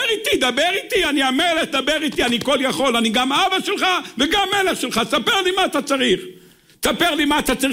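high-pitched, insistent divine plea; impassioned preacher voicing the King; God urgently inviting. Voices God urging people to pray.

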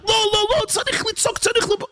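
mock screaming soul. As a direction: squeal in protest as the frantic animal soul. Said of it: "אבל נפש הבאמת צועקת".

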